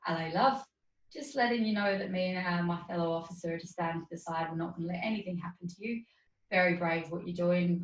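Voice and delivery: lightly put-on Cockney policeman, friendly; a half-hearted London copper impression; bad Cockney accent. Guest imitating the police officer in a mild Cockney accent. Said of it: "this is a terrible English accent".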